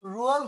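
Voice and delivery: রুয়াল starting firmly on R; R-initial pronunciation. Shown as a demonstration. Teacher answers the question, R-initial রুয়াল. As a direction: put an R at the front of রুয়াল. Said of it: "ওয়ালটা উচ্চারণ না হয়ে কি হবে?".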